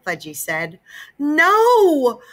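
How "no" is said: high, loud shout. A narrator's reading. Mother shouting no at Fudge. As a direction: refuse it with a shout. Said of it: "Mom shouted".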